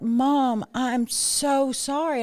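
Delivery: lightly voiced apologetic son, slow on "I'm so sorry"; a hint of a sorry son stretching "so". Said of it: "He was so apologetic".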